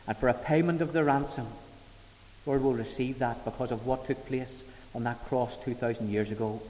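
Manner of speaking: steady reverent prayer voice; closing prayer. Real, not acted. Preacher praying for the congregation after the sermon, reverent thanks. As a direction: lead the church in thanks.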